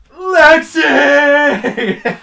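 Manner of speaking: very loud, high drawn-out yell; mock anguished shout. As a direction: scream out a former crush's name, hammed-up. Mock outburst at ex-crush's name.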